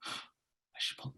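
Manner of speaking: slow, hushed whisper to himself; whispered temptation. Retold or imitated. Schoolboy tempted by the fire alarm, acted whisper. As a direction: whisper it like a tempting secret thought. Acts out being secretly tempted.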